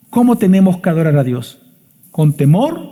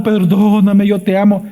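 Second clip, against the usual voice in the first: mock pleading; 4 semitones higher than usual. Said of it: "Viene otra vez llorando".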